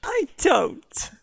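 breathy conspiratorial whisper. Acted. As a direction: let the confession slip out in a whisper. Secret answer whispered.

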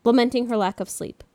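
reading a letter aloud. Shown as a demonstration. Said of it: "I'll read what she said to me".

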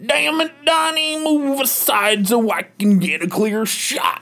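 gruff Macho Man impression. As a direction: growl it like a wrestler. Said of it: "your voice sounds like Macho Man".

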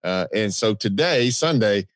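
hoarse from yelling all weekend; worn-out husky voice; raspy voice. Real, not acted. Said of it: "but my voice is terrible right now".

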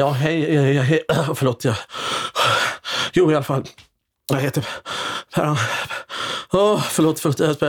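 hammed-up nervous stammering; a hint of fake jitters; mock nervous. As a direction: play a flustered auditioner, lightly. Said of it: "spelar jag enormt nervös".

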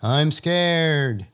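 distant echo of the shout. Acted. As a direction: call it back like a far-off echo. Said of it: "the voice coming back across the valley".

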